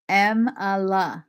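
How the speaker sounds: "Emila" said slowly, stress on the first syllable; careful practice. Shown as a demonstration. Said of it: "practising the name slowly".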